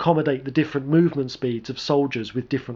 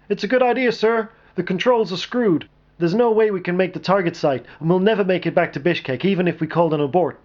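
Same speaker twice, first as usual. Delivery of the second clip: high, loud shouted report; shouting pilot; 6 semitones higher, 3 dB louder than usual. A narrator's reading. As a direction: call it back through the wrecked cockpit. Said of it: "Hayes shouted out".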